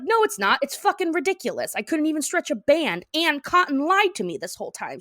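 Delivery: high-pitched retold indignation; pissed off. Peggy telling Hank Cotton lied, acted pissed off. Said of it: "I'm so pissed".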